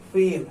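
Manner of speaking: "Feel" with a drawn-out ee; long vowel. Shown as a demonstration. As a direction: stretch the ee in "Feel". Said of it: "बड़ी ज़्यादा खींचना है".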